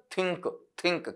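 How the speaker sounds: थिंक with the final k pressed and released; pressure on final k. Shown as a demonstration. Teacher showing where the pressure falls, final k stressed in थिंक. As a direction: finish थिंक on a distinct, separate k. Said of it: "कै sound पे pressure पड़ेगा".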